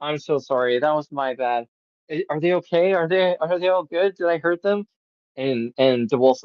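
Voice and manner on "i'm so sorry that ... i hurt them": chilled-down apology. Retold or imitated. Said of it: "he's finally chilled down".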